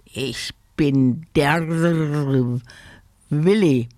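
slow croak into an ear; a hint of a croaky budgie; croaking bird. Willi croaks into the gentleman's ear, slowly. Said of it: "in sein Ohr krächzte".

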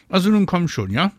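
high, loud, impatient call; urging call. A narrator's reading. Mama hurries Marie from the balcony, calling out. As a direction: urge the child upstairs. Mother urges child from balcony.

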